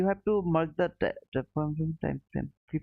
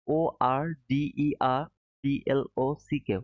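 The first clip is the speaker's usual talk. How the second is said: spelling it out. Shown as a demonstration. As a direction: spell it for the chat to note. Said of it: "if anybody can write it down".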